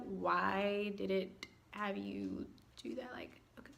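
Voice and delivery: hushed bewildered aside; whispered aside. Real, not acted. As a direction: whisper it to yourself. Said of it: "whispered aside".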